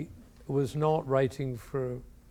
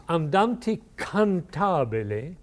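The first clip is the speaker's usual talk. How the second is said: reading the marking slowly; 3 semitones higher, slower than usual. Shown as a demonstration. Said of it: "what he says is".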